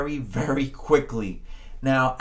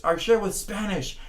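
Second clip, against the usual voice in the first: a louder, higher mock gangster voice; playful mafia boss; 6 semitones higher, 6 dB louder than usual. Teacher voices Al Capone as a memory trick, mock gangster. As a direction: ham up a cartoon gangster. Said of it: "imagine him shooting with his little gun".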